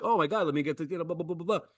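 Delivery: mock fluster. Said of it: "my reaction would be pa-, not panicky".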